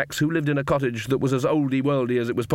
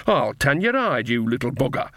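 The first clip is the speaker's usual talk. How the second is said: mock threat. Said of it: "her grin evaporating".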